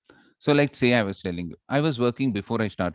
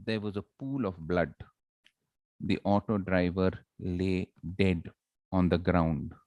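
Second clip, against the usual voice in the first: slowed, softer somber telling; slow and sad; 4 semitones lower, 5 dB quieter than usual. Shown as a demonstration. Teacher demoing slow speech for the fatal crash. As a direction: let it sink, slow and sad. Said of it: "So I had to go slow".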